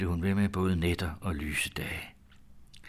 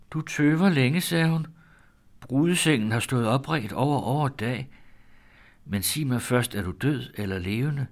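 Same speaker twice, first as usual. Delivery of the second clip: put-on high, eager voice of a girl lost in her mind; mad daughter's voice; 5 semitones higher, 4 dB louder than usual. Daughter greets her returned sweetheart, high and eager. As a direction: greet him like a bride from heaven, raised high.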